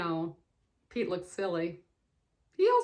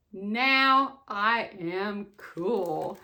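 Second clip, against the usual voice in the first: slow and proud; 3 semitones lower, much slower than usual. Acted. Pete voiced, proud.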